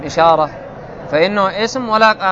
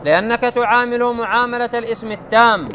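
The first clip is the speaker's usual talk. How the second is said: measured, raised recital of the classical grammar text; a higher, deliberate textbook reading; 4 semitones higher, slower than usual. Acted. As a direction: read the rule out like a set text. Reads grammar text aloud.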